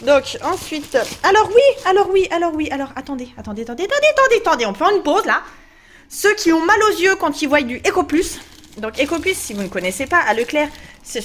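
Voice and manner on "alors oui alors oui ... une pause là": urgent stop. Real, not acted. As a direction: hurry to halt everything. Urgent interruption.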